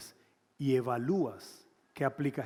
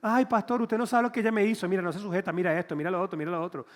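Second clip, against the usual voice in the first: a husband complaining to the pastor in a whiny voice; 3 semitones higher, faster than usual. Retold or imitated. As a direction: whine like a hurt man to the pastor. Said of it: "medio femenino".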